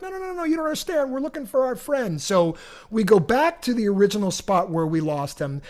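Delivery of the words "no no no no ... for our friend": fast, much higher pleading; frantic explaining. Retold or imitated. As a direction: rush to explain you're searching. Pleading with angry drivers.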